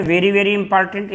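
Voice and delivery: slow, weighty stress on important; teacher leaning on very, very important, drawn out; emphatic very very important. Shown as a demonstration. Teacher telling students what matters, slow emphatic stress.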